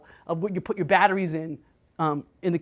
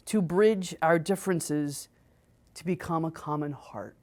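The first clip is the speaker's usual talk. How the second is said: reverent reading. Shown as a demonstration. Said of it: "he says".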